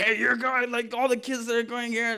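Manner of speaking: loud high shout. Retelling how the kids are told where to go: imitating own yelling. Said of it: "But I yell at the kids".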